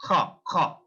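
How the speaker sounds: "Kha" with puff of air after k; aspirated K. Shown as a demonstration. Teacher demonstrates German K to learners, aspirated K. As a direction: push "kha" out from the throat. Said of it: "It's from the vocal".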